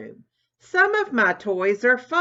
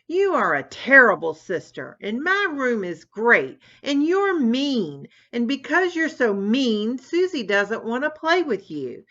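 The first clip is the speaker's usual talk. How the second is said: put-on higher, louder furious child; an enraged brother shrieking back at his sister; angry shriek; 6 semitones higher, 4 dB louder than usual. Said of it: "shrieked Tommy".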